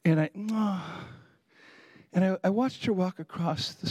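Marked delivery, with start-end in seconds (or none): 0.5-1.0 re-enacted sympathetic "aw"; pitying tut. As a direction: imitate a small noise of pity. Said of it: "had pity for her".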